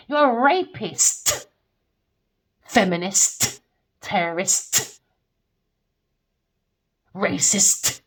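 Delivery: slow, loud hammering of each word; slow loud list of accusations; angry accusing shout. Real, not acted. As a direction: spit out each label one by one. Ranting accusations at her.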